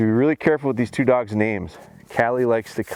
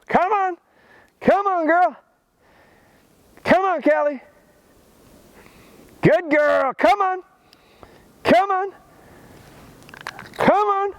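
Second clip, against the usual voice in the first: excited high cheering. Real, not acted. Trainer firing up his dog on the retrieve, high excited cheer. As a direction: pour gas on the fire with your voice. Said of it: "you see how my voice and my excitement".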